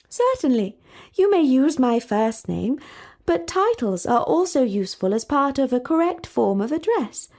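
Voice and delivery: a hint of a proper princess, mildly disapproving; lightly voiced prim princess; haughty princess. Talia insists on title.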